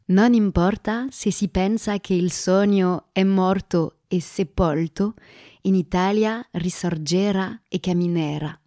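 slow, careful Italian recitation in a French accent. Real, not acted. Host reciting an Italian quotation for listeners, French-accented Italian. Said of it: "soyez indulgents avec mon accent".

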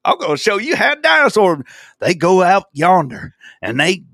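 hammed-up folksy Southern yokel; Southern guy. Mocking the dinosaur explainer, hammed-up Southern hick accent. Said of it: "I got a Southern guy".

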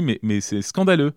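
slow, loud, outraged scandaleux; indignant protest. Retold or imitated. Pupil protesting to his teacher about detention, slow loud outrage.

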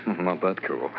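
laughing. Acted. Sergeant modestly laughs off compliment.

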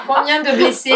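asks it through a laugh; giggling out the joke question. Real, not acted. Host laughing as she jokes about injured spectators.

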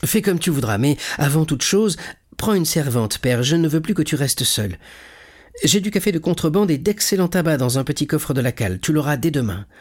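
lightly voiced young man, animated; eager caring son. Son insisting his father take a servant, warmly eager.

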